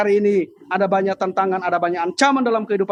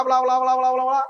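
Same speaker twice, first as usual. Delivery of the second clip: droning "bla bla" run; imitated announcement babble; 5 semitones higher than usual. Mimicking the flight attendant's announcement, imitated babble. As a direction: rattle off blah-blah like cabin announcements. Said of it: "pramugari udah ngomong bla".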